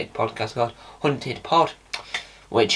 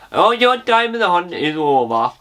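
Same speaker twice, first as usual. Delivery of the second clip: mock Geordie accent; 5 semitones higher than usual. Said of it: "that was supposed to be a Geordie accent".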